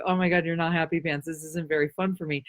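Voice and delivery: low, fast, subdued grumble; mock disappointment. Imagined person let down by someone's frown, mock disappointment. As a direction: say it small and quick, let down.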